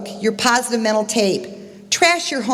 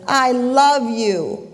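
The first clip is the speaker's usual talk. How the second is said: very slow, stretched-out declaration; father calling out love; 3 semitones higher, much slower than usual. Retold or imitated. Father calling love to the unseen voice, very slow call. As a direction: call it out, stretching each word. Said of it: "And the father says".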